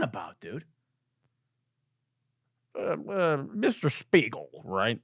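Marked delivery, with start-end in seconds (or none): 2.8-5.0 put-on old white man senator voice. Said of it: "I'm doing my old white, uh, man senator voice again".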